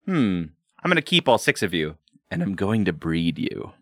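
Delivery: Grandmaster voice. Retold or imitated. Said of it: "the Grandmaster was like".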